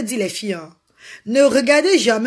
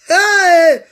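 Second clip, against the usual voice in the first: excited hey; 8 semitones higher, 8 dB louder than usual. Real, not acted. Sudden exclamation on livestream.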